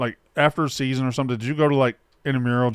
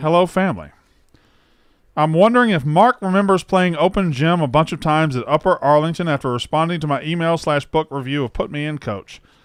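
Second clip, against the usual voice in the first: ordinary talk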